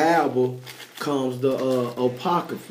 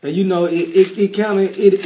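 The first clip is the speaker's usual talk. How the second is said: rough, hoarse voice after a microphone failure; 4 dB louder than usual. Real, not acted. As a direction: speak through a worn-out, hoarse throat. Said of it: "my voice hoarse".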